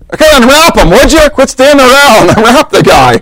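high, brisk mock Jesus ordering helpers; impatient Jesus. Jesus tells the crowd to unwrap Lazarus, impatient. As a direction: hurry the bystanders along.

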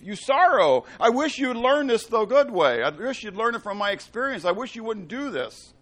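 usual speaking voice

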